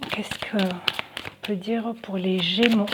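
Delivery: whispered to herself, half aloud; whispered musing. Real, not acted. Tarot reader pondering her cards, whispering. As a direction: whisper the question to yourself.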